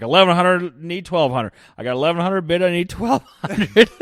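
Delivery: high, loud auction call; auctioneer voice. Shown as a demonstration. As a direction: chant the bids like an auctioneer. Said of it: "give me your auctioneer voice".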